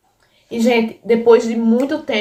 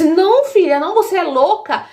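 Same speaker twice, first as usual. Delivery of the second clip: high-pitched, emphatic retold objection; alarmed refusal; 6 semitones higher than usual. Mother refuses daughter's hug for grandpa, alarmed. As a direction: act out stopping the child at once.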